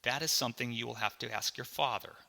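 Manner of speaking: measured, even reply; calm. Acted. Mom sends the boy to ask his father, calmly. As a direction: answer evenly, giving nothing away. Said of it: "looked at me and calmly said".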